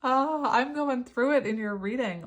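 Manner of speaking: loud, high-pitched, choked-up outburst; overwhelmed and close to crying; real tearful overwhelm. Real, not acted. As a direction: laugh through rising tears, voice lifting. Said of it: "I feel like crying".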